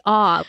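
"ah" with no r sound; letter R pronounced as open "ah". Retold or imitated. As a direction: quote the dropped-R "ah" for the letter R. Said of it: "you can't say ah".

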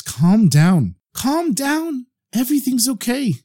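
soothing. A narrator's reading. Rabbi settling the distraught farmer, soothing. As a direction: reassure gently in a lightly acted voice.

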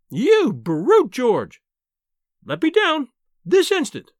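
high, loud, indignant shriek; shrieking wife, helpless and furious; outraged wailing. A narrator's reading. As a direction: demand release at the top of your voice. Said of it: "she wailed".

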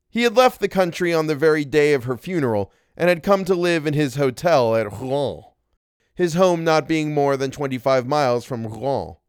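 slightly lifted, measured reading voice; story narration. A narrator's reading. Narrator recounting regiment days, story narration. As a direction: tell it as an old-fashioned tale.

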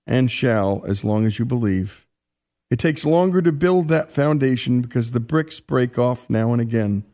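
lightly lifted, earnest letter reading; reading a letter aloud. Acted. Host reading a fallen soldier's letter to his wife, earnest reading. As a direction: read the soldier's words with care.

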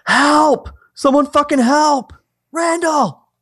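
high desperate shout for help; calling for help. Acted. Norman screams for help from a locked room. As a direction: scream for someone to come.

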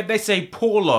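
"Paulo" with an "aw" first vowel; UK mispronunciation. Shown as a demonstration. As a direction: say "Paulo" as POR-lo. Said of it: "When people read my name here in the U K".

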